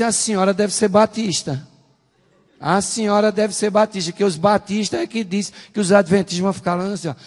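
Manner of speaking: high, loud comeback; emphatic retort. Retold or imitated. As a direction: fire back a challenge, loud and high. Retorts to the woman's accusation. (réplica enfática, em voz alta e aguda)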